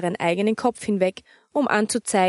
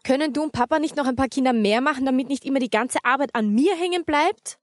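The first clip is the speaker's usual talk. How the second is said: put-on fast, higher whining girl's voice; sulky child; 5 semitones higher than usual. Anita complains to her mother, fast and whiny. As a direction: rush out a cheeky complaint. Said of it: "funkelte sie mit wütenden Augen an".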